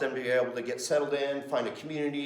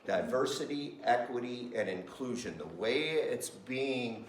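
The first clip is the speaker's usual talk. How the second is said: grave skepticism; 3 semitones lower, 6 dB quieter than usual. Shown as a demonstration. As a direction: say it like a warning. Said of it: "In practice".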